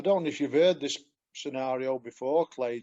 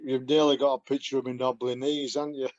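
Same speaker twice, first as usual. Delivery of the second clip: laughing; faster than usual. Real, not acted. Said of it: "I'm just laughing at my photograph".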